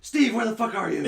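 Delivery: put-on drunken holler. Acting out his friend's drunken messages.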